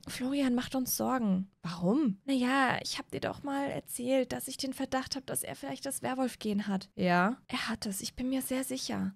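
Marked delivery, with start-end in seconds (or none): 2.8-9.1 hushed, much softer secret talk; whispering. Acted. Mother telling Moritz a werewolf secret, hushed whisper. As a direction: whisper it so the kids can't hear. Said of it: "Was flüstert ihr denn da".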